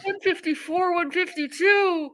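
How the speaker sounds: high-pitched nervous panic; panicked high voice. Real, not acted. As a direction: read the numbers in rising panic. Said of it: "Jen, calm down".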